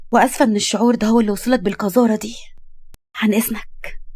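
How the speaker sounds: offended dignity, deliberate and firm; wounded wife, indignant. Acted. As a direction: denounce them with restrained outrage. Shocked wife denounces insulting husband.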